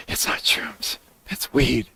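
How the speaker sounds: hushed, secretive whisper; whispered correction. Acted. Correcting the chat about shrooms, whispered. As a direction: whisper it like a confidential aside.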